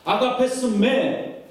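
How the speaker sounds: drawn-out question. Acted. Jesus's question repeated, drawn out.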